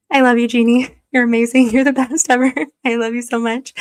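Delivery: delighted, laughing affection; gushing thanks. Real, not acted. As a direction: beam at a generous fan. Thanking a chat supporter.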